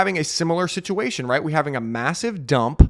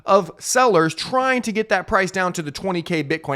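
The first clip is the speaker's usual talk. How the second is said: excited counting; 6 semitones higher, 4 dB louder than usual. Real, not acted.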